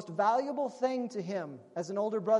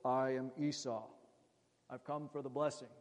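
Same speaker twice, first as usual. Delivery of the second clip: deep put-on voice, much lower; voce abbassata; 7 semitones lower, 5 dB quieter than usual. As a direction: drop low to pass as the older brother. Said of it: "He lowers his voice".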